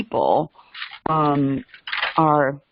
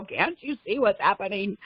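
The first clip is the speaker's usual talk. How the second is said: urgent plea; 5 semitones higher, 4 dB quieter than usual. Retold or imitated. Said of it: "shake everybody and go".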